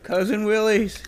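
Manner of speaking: a light southern drawl on the sponsor name; southern accent. Pretend. Cohost naming the unofficial sponsor, lightly Southern. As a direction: say the popcorn brand like a Southern local. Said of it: "you have to say it with sort of a southern accent".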